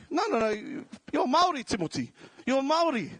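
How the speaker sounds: mock insistent family. Nan and mum insisting he's Māori, mock emphatic. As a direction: hammer it home like nagging whānau.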